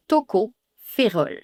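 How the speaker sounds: slow "Tocophérol"; slow model "Tocophérol"; slow pronunciation. Shown as a demonstration. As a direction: stretch "Tocophérol". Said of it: "Et tocophérol".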